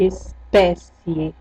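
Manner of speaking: Espécie said very slowly, stretching the open é; drawn out demo. Shown as a demonstration. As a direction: sound out Espécie slowly for the class. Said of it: "deixa eu ver se tem algum E aqui".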